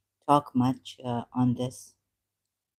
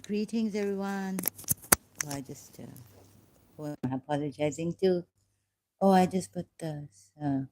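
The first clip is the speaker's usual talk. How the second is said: ordinary talk, nothing marked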